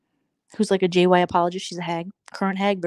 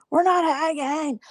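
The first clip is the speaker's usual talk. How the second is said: "We're not hagging" said again much higher and slower, no whisper; higher, slow repeat; 9 semitones higher, slower than usual. Shown as a demonstration. Insisting to viewers again, high and drawn out.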